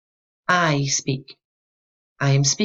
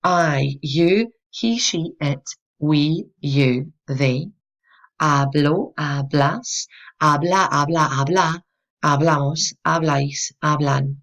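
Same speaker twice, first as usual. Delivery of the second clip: measured recitation of a verb pattern; teacher's rhythmic conjugation drill; memorization drill; slower than usual. Shown as a demonstration. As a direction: recite each form as a separate beat. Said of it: "you memorize it as follows".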